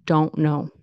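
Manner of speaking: "Don't know" with a glottal stop for the T. Shown as a demonstration. Teacher demonstrating casual speech, glottal stop. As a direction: cut the T of "Don't" off in the throat. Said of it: "don't with the glottal stop".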